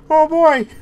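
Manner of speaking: high, loud cartoon exclamation; Goofy. Streamer joking about the game, Goofy impression. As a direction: exclaim like an excited cartoon goofball. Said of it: "I gotta talk like Goofy".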